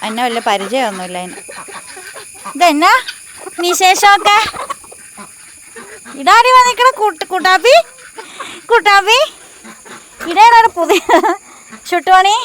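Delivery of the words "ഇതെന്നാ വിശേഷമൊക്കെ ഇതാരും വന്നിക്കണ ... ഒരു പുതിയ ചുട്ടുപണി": high, loud sing-song calls to the chickens; cooing to pets. Real, not acted. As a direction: coax the pets in a high, fond voice. (വളർത്തുകോഴികളോട് ഉയർന്ന, ഉച്ചത്തിലുള്ള ഓമനവിളി)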